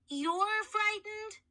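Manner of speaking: high, slow, incredulous; can't believe it; boy amazed that a mummy is scared; astonished. Acted.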